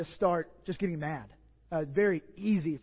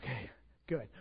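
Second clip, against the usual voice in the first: soft, low sigh of relief; relieved murmur; 7 semitones lower, 10 dB quieter than usual. Retold or imitated. Preacher seeing the baby asleep, quiet relief. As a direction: let the worry go quietly.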